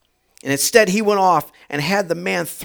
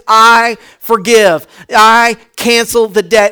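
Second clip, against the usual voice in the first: slow, loud declaration of forgiveness; slow divine pardon; 5 dB louder, slower than usual. Acted. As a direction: announce the pardon slowly, like God. God's voice in sermon.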